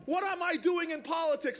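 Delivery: mock angry rant; retold angry yelling. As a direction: vent as if at the neighbor, half-yelled. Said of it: "I started yelling at her".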